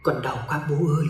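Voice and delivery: soft, wind-like ghostly whisper; airy whisper. Acted. Ghost daughter whispering to her sleeping father, soft. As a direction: float it out like a faint breeze. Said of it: "giọng nhẹ nhàng gió thoảng như vậy thì thầm".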